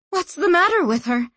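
high-pitched, alarmed question; terrified. A narrator's reading. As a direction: ask it in a fright. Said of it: "said Berenice, terrified".

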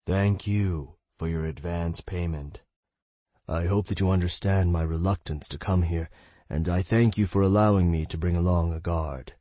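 a lightly voiced silky charmer; honeyed voice. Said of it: "the mage uttered in a honeyed tone".

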